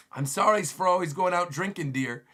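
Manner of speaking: mildly hammed-up pleading apology; apologetic husbands. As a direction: grovel a little to a scary wife. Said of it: "They're all apologizing to the nightmare wives".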